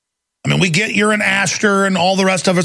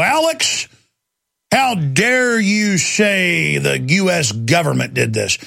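mock indignation; slower than usual. Callers scold the host on talk radio, mock indignant. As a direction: imitate an affronted caller stretching each word.

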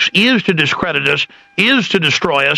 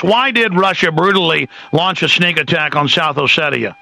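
sarcastic. Acted. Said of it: "I'm being sarcastic".

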